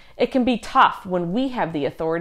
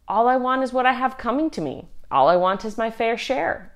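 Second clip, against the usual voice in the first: Sally's shrug; 4 semitones higher than usual. Retold or imitated. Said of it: "she says".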